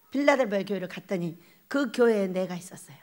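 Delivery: hushed secret whisper. Real, not acted. Whispered reveal to the congregation. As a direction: lean in and whisper it.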